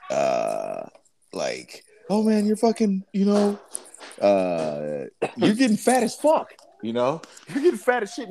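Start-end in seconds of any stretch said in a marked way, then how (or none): 2.1-8.3 much higher, jeering mock taunt; hammed-up radio jock ribbing someone; mocking radio hosts. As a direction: shock jocks taunting Farley on air, higher.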